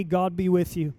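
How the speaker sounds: normal talking voice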